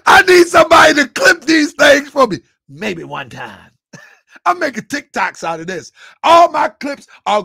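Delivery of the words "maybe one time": mocking impression. Clipping the line for TikTok.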